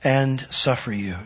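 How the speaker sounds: reading Jesus' rebuke. Acted. Preacher reading Jesus' rebuke aloud, slow and solemn. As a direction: read the old words with weight. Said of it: "And Jesus answering said".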